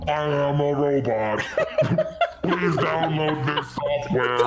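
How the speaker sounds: robot voice. Acted. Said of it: "and says".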